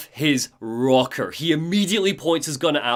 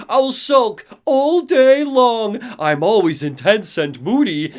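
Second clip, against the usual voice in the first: Alan Wake; 3 semitones higher, 3 dB louder than usual. Retold or imitated. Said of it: "in front of his face and is like".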